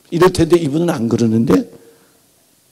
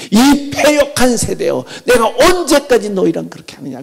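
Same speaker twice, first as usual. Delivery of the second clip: angry rebuke; 7 semitones higher, 5 dB louder than usual. Retold or imitated. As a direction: thunder at the stubborn crowd. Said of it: "욕하면서 반석을 내리쳐요".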